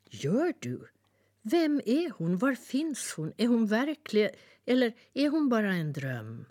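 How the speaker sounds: put-on boy amazed, asking the bird; excited boy. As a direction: pepper her with questions. Boy eager questions.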